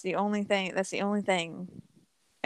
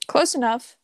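laughing repeat; 5 semitones higher, 6 dB louder than usual. Real, not acted.

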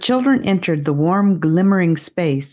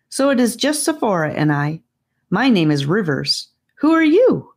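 lightly voiced serious boy; 4 semitones higher than usual. Voices Rivers.

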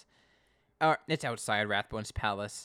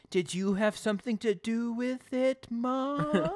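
much higher pointed accusing question; attitude; 12 semitones higher, slower than usual. Retold or imitated. Connie questioning her mom about the credit card, high and pointed. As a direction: lean into it with teen sass. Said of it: "getting that more attitude".

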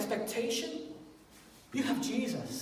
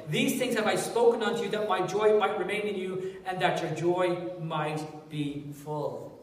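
scripture reading; 2 semitones lower than usual. Acted. Reads scripture aloud.

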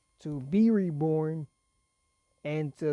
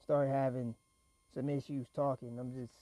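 trailing off, holding back a cough; fighting a cough; 3 semitones lower, 5 dB quieter than usual. Real, not acted. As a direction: voice fading while fighting a cough. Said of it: "I apologize for my coughing".

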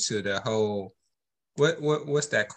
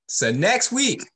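scolding shout; 9 semitones higher, 4 dB louder, slower than usual. Real, not acted. Radio host scolding bettors, a slow high shout. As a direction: stretch it out loud and high.

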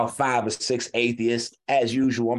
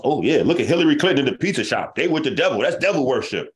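fast mock conspiracy believer; 5 semitones higher, 3 dB louder, faster than usual.

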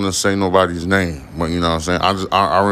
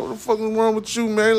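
mock outrage; 14 semitones higher, 5 dB quieter, faster than usual. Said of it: "I was like".

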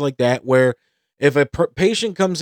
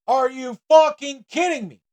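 incredulous; 11 semitones higher than usual. Retold or imitated. Outraged at queue jumpers.

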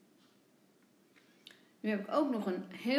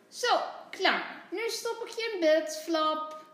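higher, loud nurse's call; 6 semitones higher, 3 dB louder than usual. A narrator's reading. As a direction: call out cheerfully, a bit fast, as little nurse Saar. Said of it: "roept Saar".

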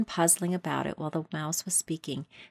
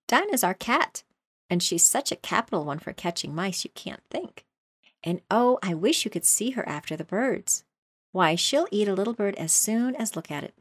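eager; 3 semitones higher than usual. Acted. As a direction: gush about her cat. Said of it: "Alice replied eagerly".

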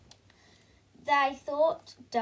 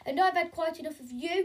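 1 crowing; 4 semitones higher, faster than usual. Acted. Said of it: "Camilla crowed".

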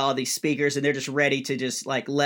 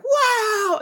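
mock crowd wow; 4 dB louder than usual. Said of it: "And everybody's like".

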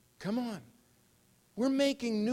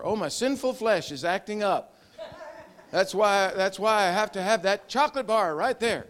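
mock churchy talk; 2 semitones higher, 5 dB louder than usual. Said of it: "Who talks like that?".

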